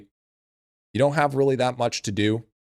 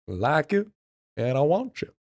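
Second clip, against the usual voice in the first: high mock villain; 6 semitones higher than usual. Repeating villain quote.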